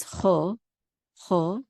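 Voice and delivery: ho with a short, pure o. Shown as a demonstration. Teacher modelling the Hebrew vowel, short O. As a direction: say ho without gliding to oo. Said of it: "It's a short O".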